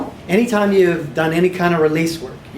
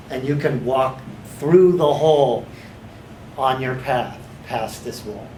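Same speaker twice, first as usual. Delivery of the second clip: calming down; 3 semitones lower, 4 dB quieter than usual. Shown as a demonstration. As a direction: let the dust settle gently. Visualization winds down.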